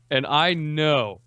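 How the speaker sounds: slow, amused teasing with laughs; laughing. Real, not acted. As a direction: tease him through giggles. Teasing friend while laughing.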